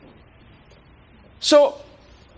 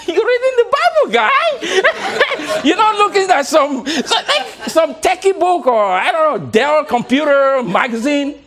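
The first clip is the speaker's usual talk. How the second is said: higher, laughing mock outrage; mock disbelief; 6 semitones higher, slower than usual. Speaker mocking the rude lady on the plane, laughing. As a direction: tease her in a high, amused voice.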